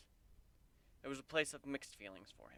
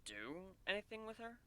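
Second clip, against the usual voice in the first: blank; 9 semitones higher, 6 dB quieter than usual. Acted. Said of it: "Warren asked blankly".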